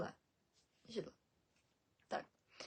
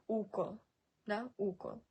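укол with the opening "u" held long; long first u. Shown as a demonstration. Teacher giving an example, укол with long first vowel. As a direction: stretch the start of укол, "uuu-kol". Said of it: "А у з чаркою це".

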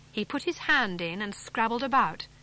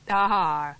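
louder sudden aha of discovery; triumphant aha; 2 semitones lower, 6 dB louder than usual. Acted. Farmer finding the hidden catch, triumphant. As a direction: crow it as the trick gives way. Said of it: "said Mister Penruthlin suddenly".

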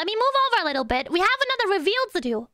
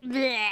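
disgusted bleh; 8 semitones lower than usual. Pretend. Disgust at garlic sip.

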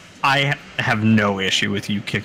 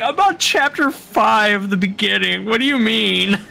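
retold disbelief; 10 semitones higher than usual. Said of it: "I'm like".

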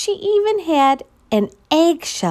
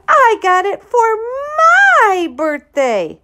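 put-on insistent girl; 10 semitones higher, 5 dB louder than usual. Ruthie lying to teacher.

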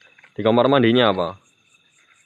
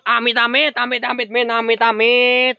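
higher rapid amit amit; spooked warding off; 10 semitones higher than usual. Real, not acted. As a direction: ward off bad luck nervously. (amit-amit ketakutan)

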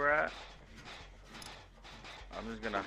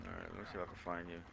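whispering while hiding; 3 semitones lower, 11 dB quieter, faster than usual. Real, not acted. Hiding in closet from killer.

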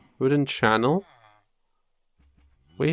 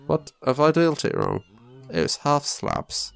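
posh; 4 semitones higher than usual. Pretend. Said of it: "And I'm going all posh".

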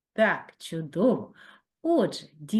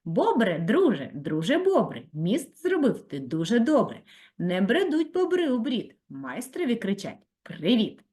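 tongue twister reading; 2 semitones higher than usual. Shown as a demonstration. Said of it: "я вам прочитаю її".

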